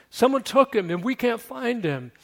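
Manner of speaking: a frightened woman reporting a loss; panicky. Retold or imitated. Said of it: "A little bit of panic in her voice".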